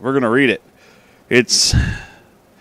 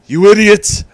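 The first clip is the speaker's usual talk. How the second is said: much higher, shouted Trump rant; Donald Trump impression; 12 semitones higher, 14 dB louder than usual. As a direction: scream at the servants as Trump. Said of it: "I'm doing my best Donald Trump impression".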